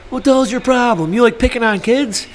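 high hammed-up indignant demand; mock angry confrontation. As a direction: challenge him like an outraged uncle. Uncle's group confronting.

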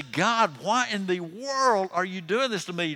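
high, loud exasperated plea; Moses. Retold or imitated. Overburdened leader demands answers from God, aggravated. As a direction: act out aggravated protest to heaven. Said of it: "Moses is talking to God".

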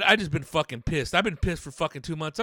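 ordinary talk, nothing marked

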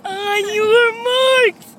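slow, drawn-out call to the contestants; starter's call. Pretend. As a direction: call the start, stretching the words.

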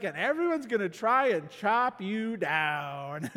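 a hint of a grim warning, slow; preacher's mock-ominous answer from Psalm two. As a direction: voice Psalm two as the bad news. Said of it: "Psalm two is like".

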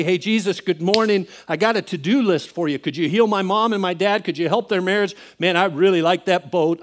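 mock casual prayer, rattling off requests; breezy ordering prayer. Praying like Jesus is our servant boy, breezy ordering. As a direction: list wants as if to a servant. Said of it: "we pray like Jesus is our servant boy".

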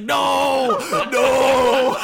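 high, loud furious yell laced with laughter; angry shout. Acted. GM voicing Grub yelling at the fighter, laughing. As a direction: yell NO like a sore loser. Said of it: "And he's like".

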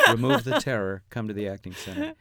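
punchy ad slogan; mock slogan. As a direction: sell it like a tagline. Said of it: "It's a good slogan".

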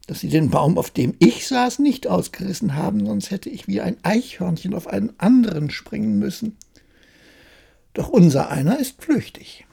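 a lightly voiced cheeky tailor, pleased with himself. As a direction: chuckle at his own luck as the little tailor.

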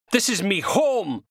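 high, loud and slow outburst; defiant shout. Acted. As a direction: shout it out before lashing out. Man shouting before kicking the TV.

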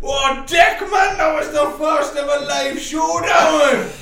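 loud hype MC shout. Pretend. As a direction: yell it like a hype MC.

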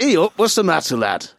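put-on Yorkshire accent.

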